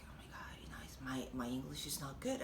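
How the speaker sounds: a quiet sinking "oh no" under the breath; hushed dismay. Retold or imitated. Learner lost watching a TV show, softly dismayed. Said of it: "And I was like".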